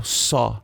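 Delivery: "saw" with a plain S, tongue behind the teeth; normal S. Shown as a demonstration. Teacher contrasts S against TH for students, normal S. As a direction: say "saw" with an ordinary S, not TH. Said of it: "agora o S normal".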